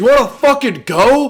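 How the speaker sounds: passionate put-on outburst. Retelling a worker confronting a coworker: imitating a heated confrontation. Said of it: "start talking passionately".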